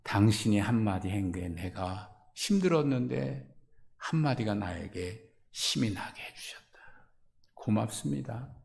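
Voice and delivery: soft, hushed gratitude; tender thanks. Acted. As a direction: thank them softly for the comforting word. Tender grateful quote. (조용히 속삭이듯 전하는 감사)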